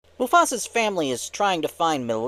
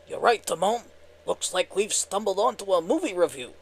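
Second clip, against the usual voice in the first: higher-pitched, good-natured cartoon sidekick; Pumbaa; 4 semitones higher than usual. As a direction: agree with your buddy in a goofy cartoon voice. Skit voicing Pumbaa answering Timon.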